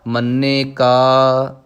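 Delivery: slow, measured recitation of scripture; Gurbani recitation. Shown as a demonstration. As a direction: intone each line with devotion. Recites Gurbani lines in lesson. (Gurbani ਦਾ ਸਹਿਜ ਪਾਠ)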